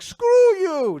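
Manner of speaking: high, loud Irish yell; stereotypical Irish. Pretend. Captain teaching Pino rude words in stage Irish. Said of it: "a stereotypical Irish guy".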